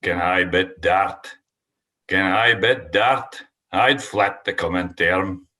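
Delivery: reciting a Scots poem; slow, measured poetry reading; poem recital. Acted.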